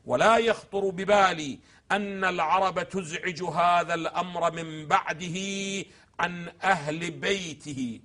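slow, drawn-out quoted text; slow recitation. Acted. Lecturer quoting the sermon to the host, slow recitation. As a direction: read the Imam's words slowly, weighing each.

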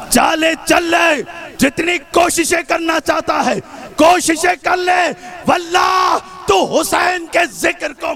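building declamatory shout; Zainab, defiant challenge. Retold or imitated. Zainab daring Yazid to try, defiant oratory. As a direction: dare the tyrant, rising to a ringing vow. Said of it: "علی کے لہجے میں کہا".

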